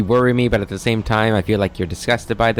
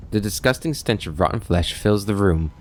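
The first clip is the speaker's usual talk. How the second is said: story narration. A narrator's reading. Reads game narration.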